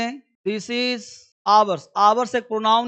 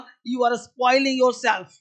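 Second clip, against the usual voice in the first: slow model sentence; much slower than usual. Shown as a demonstration. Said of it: "teacher models the English sentence".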